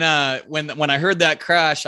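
ordinary talk, nothing marked

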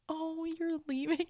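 high, drawn-out mock dismay. Acquaintance hearing that she's leaving, imitated dismay. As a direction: wail it lightly as a dismayed acquaintance. Retelling a saddened acquaintance's reaction.

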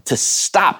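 to stop drawn out slowly with a lift; slow emphasis. Shown as a demonstration. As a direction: savour the words to stop. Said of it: "think about that".

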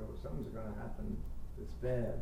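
quick, anxious worried mutter; anxious inner voice. Retold or imitated. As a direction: fret that something bad is coming. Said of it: "you get anxious and you figure".

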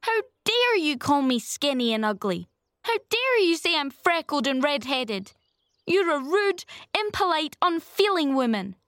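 put-on high-pitched, outraged child; furious child's tirade; passionate indignation. A narrator's reading. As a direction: fling each accusation with indignant force. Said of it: "passionate indignation exhaling from her".

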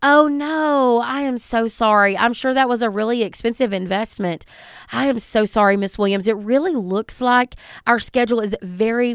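soothing, apologetic phone manner; lightly played caring receptionist; empathetic receptionist. Shown as a demonstration. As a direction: reassure an upset customer kindly. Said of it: "the words out of your mouth go".

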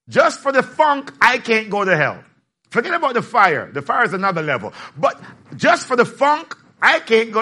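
emphatic refusal. Real, not acted.

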